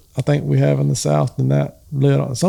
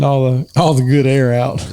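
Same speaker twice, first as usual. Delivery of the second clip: quoted parent saying. Retold or imitated. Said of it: "I've heard that".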